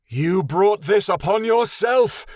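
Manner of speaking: loud, slow, high battle cry; furious shout. A narrator's reading. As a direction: hurl the words as she charges. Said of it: "the sandy unicorn shouted".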